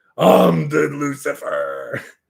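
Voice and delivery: raspy, scary put-on voice. A player slips into roleplay mode, in a scary roleplay voice. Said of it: "my R P trying to be scary mode".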